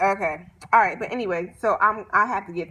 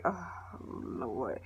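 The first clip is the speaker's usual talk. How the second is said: a low, much softer, tired sigh of a line; weary oh lord; 11 semitones lower, 16 dB quieter than usual. Retold or imitated. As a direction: let it sink out of you, exhausted. Speaker reacts to reality show drama.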